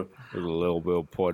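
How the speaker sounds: bad New Zealand accent. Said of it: "really bad New Zealand accents".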